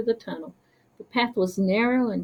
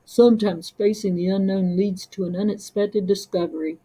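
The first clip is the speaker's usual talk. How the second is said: gentle murmur. Acted. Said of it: "a gentle murmur".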